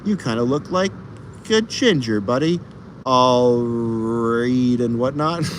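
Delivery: lightly voiced teasing buddy, slow drawn end; reading Dave's comment. Reading Old School Dave's comment aloud, lightly mocking buddy voice. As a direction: read the comment like a teasing pal. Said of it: "Old School Dave says".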